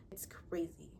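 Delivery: conspiratorial whisper. Real, not acted. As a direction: lean in and whisper it like gossip. Gossiping about Scotty.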